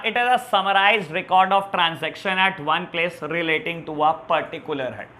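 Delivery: very slow definition read out word by word; slow dictation. Shown as a demonstration. Teacher dictating the definition for the children's notes, slowly. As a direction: dictate it slowly so they can write. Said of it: "आप मेरे साथ साथ notes बनाकर चलेंगे".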